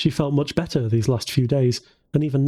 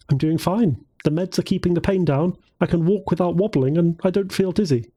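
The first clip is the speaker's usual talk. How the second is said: put-on raised, bright young woman; 4 semitones higher than usual. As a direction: lift the pitch for Jennifer. Jennifer answers the doctor.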